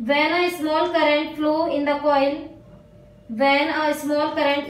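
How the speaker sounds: very slow, word by word, so students can write; slow dictation. Real, not acted. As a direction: dictate each phrase slowly and clearly. Teacher dictates notes to write. (धीरे-धीरे लिखवाना)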